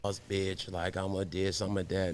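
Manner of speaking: hushed imitation of bragging; mock boss chick.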